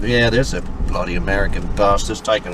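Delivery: imitating a rough Australian bloke; mock Australian accent. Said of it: "you do a good Australian accent".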